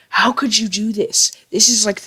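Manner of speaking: hammed-up imitation of a brother losing it; mock outraged yelling. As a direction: play an overblown accusation without really shouting. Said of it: "he yells at me".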